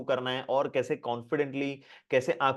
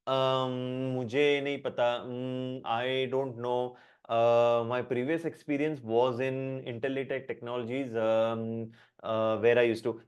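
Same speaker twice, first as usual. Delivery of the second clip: slow halting answer full of ums; hesitant filler speech; 2 semitones lower, much slower than usual. Shown as a demonstration. Teacher acting a nervous interview answer, halting with ums. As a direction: stumble through it like a nervous candidate. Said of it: "filler words हम हमेशा बोलते हैं".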